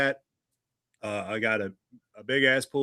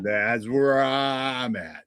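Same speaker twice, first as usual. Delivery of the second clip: very slow, drawn-out robot impression; robot voice imitation; much slower than usual. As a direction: mimic a glitchy robot, slowly. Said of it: "you sound like you're like, uh, a robot right now".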